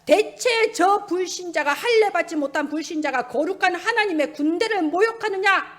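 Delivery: preacher voicing David's holy anger; righteous indignation. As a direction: retell it as an outraged rhetorical demand. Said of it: "마음에 거룩한 분노가 일어난 겁니다".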